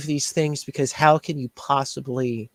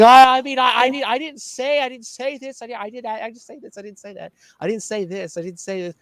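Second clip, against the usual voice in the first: higher pitched, stammering mock excuses; flustered imitation; 5 semitones higher, much faster than usual. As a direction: imitate him tripping over his own excuses, voice pitched up. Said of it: "'Cause he's like".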